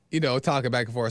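ordinary talk

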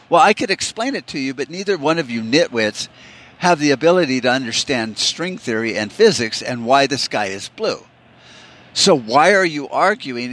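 mildly fed-up parent, opening high; exasperated dad. Acted. Dad to arguing kids in the back seat, exasperated. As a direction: lecture the squabbling kids with some exasperation.

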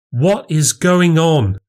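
high, slow, baffled question; alarmed demand. Acted. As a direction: demand an explanation. Wife returns to a row.

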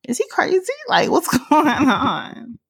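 rising to a high incredulous squeak; mock disbelief. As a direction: act baffled and alarmed. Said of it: "I'm just like".

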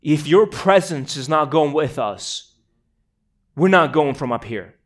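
retold outburst of frustration, building in force; almost an outburst. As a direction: plead with God and refuse to budge. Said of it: "this sort of almost outburst".

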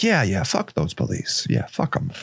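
low, eager mock agreement, fading to near breathless at the end; mocking liberals. The liberals cheering on a rap group, mocked in a low voice. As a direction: sneer at the liberals' eager approval. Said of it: "the liberals are like".

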